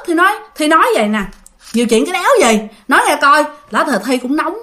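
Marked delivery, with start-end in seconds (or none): 1.7-3.4 retold irritated snap back; mildly angry comeback; hot-tempered retort. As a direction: challenge him, a touch heated. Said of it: "nóng lên, cho nên Thi nói vậy".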